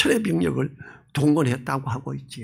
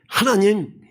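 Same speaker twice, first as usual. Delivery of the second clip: earnest prayer; 4 semitones higher than usual. Retold or imitated. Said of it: "간절히 기도했어야 돼요".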